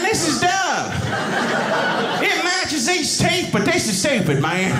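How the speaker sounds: put-on Southern accent. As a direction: complain in a hammed-up, high Southern accent. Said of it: "I sound like this".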